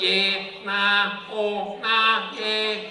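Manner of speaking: broad Aussie. Acted. Comic mocking Aussie speech, broad unsexy accent. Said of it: "we don't have a sexy voice".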